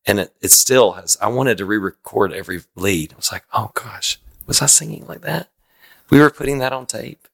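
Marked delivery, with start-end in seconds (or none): 3.5-7.3 higher-pitched disbelieving question; mock dismay. Singer reacting to his own old record, mock dismay. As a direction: play appalled disbelief at what you hear.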